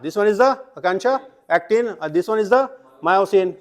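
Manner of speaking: slow emphatic labelling. Shown as a demonstration. Teacher repeats labels for class.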